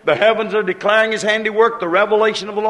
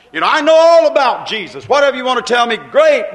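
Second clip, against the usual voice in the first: loud, breezy dismissal, louder and higher; mock brush-off; 4 semitones higher, 6 dB louder than usual. Worldly man shrugging off talk of Jesus, loud and breezy. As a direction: wave off the preacher with loud cheer.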